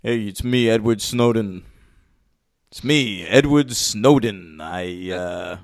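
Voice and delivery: soft, subdued put-on voice; Edward Snowden. Impressionist as actor demoing a movie role for the host, soft mock voice. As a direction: speak low-key and hesitant, trailing off. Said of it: "You wanna hear my Snowden voice?".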